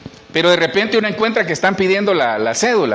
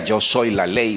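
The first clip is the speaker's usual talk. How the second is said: Django quote; 8 semitones lower, slower than usual. Retold or imitated. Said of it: "Y Django decía".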